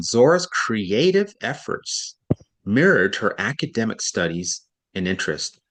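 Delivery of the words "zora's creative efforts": higher, slow Zora's creative efforts; stress on Zora's creative efforts. Shown as a demonstration. Teacher rereading the line with more emphasis. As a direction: reread it slowly, lifting Zora's. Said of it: "I'm gonna read that again".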